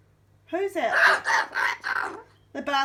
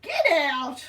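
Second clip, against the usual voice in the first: shouted shoo, louder; showing the pet what to yell at the blackbirds; demo shout; 4 semitones higher, 4 dB louder, much slower than usual. Shown as a demonstration. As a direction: call shoo out like chasing birds off.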